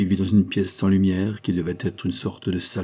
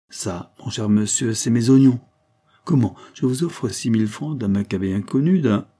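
indignant buyer; 3 semitones higher, 4 dB louder than usual. Acted. Buyer indignant at being questioned.

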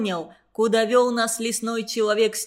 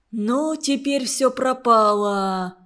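в ужасе; slower than usual. Acted. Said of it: "леденея подумал я".

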